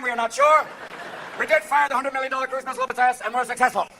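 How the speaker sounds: steady mock-official report; hammed-up official spokesman; military briefing officer. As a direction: announce it like a war briefing.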